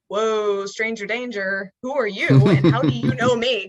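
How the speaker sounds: loud, startled 'who are you?'; alarmed surprise. Retold or imitated. Retelling meeting a stranger at the cenote, loud startled alarm. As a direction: jolt back from a stranger who knows your name. Stranger knows her name.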